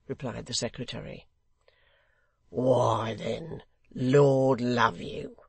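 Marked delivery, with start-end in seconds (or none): 2.5-5.4 slow, chuckling hangman; hoarse chuckle. A narrator's reading. Hangman obliging the secretary, hoarsely chuckling. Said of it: "in his hoarsest chuckle".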